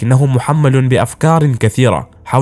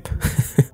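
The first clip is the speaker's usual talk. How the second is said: brief, soft chuckle; short laugh; 8 dB quieter than usual. Real, not acted. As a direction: chuckle softly after your own remark. Own remark about the fake doctor. (ضحكة قصيرة خافتة)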